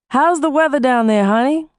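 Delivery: easygoing husband on the phone. Acted. Husband voiced by narrator.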